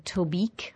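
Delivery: Tobique said with a long "ee", to-BEEK; host's own pronunciation. Real, not acted. Host naming a reel he played, Tobique said as to-beek. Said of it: "I usually pronounced it".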